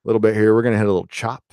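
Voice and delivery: lightly imitated calm pilot announcement, soft; mock captain reassuring passengers, half-hearted; pilot speak. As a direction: passengers hear a mildly imitated soothing captain. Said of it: "they do it in pilot speak".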